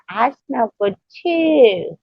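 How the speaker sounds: high, slow, lightly done commercial voice; a hint of an Irish Spring ad read; soap ad voice. Joking like an Irish soap commercial, a slow mock ad line. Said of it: "it's like an Irish Spring commercial".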